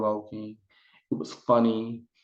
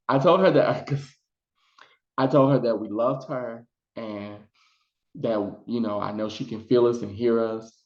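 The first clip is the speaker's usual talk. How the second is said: emotional, near tears. Real, not acted. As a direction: push the words out through real tears. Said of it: "I'm trying not to cry".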